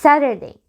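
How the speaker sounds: Saturday with the T softened to a tap; light flapped T. Shown as a demonstration. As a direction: say Saturday as 'Sarerday', American style. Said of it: "دي خفيفة شوية".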